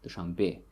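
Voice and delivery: Dushanbe with a stressed final be; Dushanbe, weight at the end; stress on last syllable. Shown as a demonstration. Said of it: "the stress falls on the last syllable".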